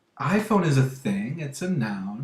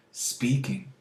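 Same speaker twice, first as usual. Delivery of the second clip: the explanation kept in a whisper; 2 semitones higher, 4 dB quieter than usual. Shown as a demonstration. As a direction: stay hushed while explaining. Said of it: "Mark is speaking quietly".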